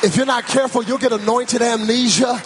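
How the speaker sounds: rolling preacher cadence, building at the end; full-force preaching. Real, not acted. Preacher reminding the church of God's grace, full-force preaching. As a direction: urge them on, phrase after phrase.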